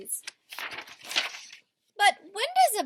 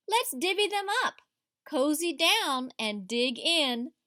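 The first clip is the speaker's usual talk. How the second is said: cheerful badger; 4 dB louder than usual. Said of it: "badger says with a grin".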